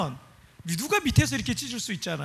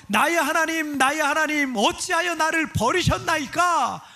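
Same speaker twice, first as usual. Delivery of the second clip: mildly raised, higher-pitched cry to God; 울부짖음 인용; 5 semitones higher than usual. Retold or imitated. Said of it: "라고 하면서 울부짖으셨던 거예요". (절제되게 울부짖듯 높은 목소리로)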